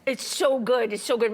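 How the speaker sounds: talking through a mouthful; words round a bite of bread; mouth full. Real, not acted. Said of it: "My mouth is full".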